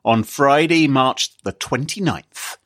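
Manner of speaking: slow, menacing interrogator; lightly voiced bad cop grilling suspects; detective voice. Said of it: "Is this your detective voice?".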